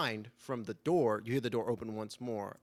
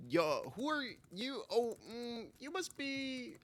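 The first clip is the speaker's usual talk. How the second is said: higher, fading groggy mumble; drowsy drunk guy; 13 semitones higher, slower than usual. Acted. Drunk man just woken, greeting strangers groggily. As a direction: squint at the strangers, half awake. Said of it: "and he goes".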